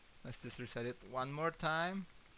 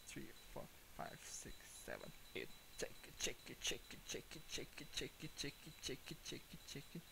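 much softer breathy count under the breath; tense whispered counting; 12 dB quieter, much faster than usual. Real, not acted. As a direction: whisper the count so nothing hears. Whispering count during tense moment.

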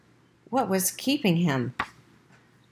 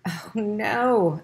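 exclaimed; 4 semitones higher than usual. A narrator's reading. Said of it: "exclaimed the mother".

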